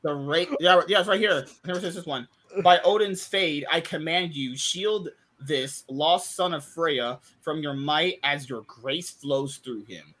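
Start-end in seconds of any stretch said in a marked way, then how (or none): 2.6-10.1 slow, lightly hammed-up old-hero voice; a hint of grandiose Norse oath; mock epic reading. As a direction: read it like a pompous saga hero, slowly. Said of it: "Who talks like that?".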